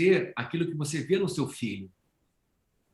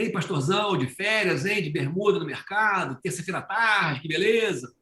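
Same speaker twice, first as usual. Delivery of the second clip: teasing townsfolk; 5 semitones higher than usual. Retold or imitated. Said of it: "O pessoal fala".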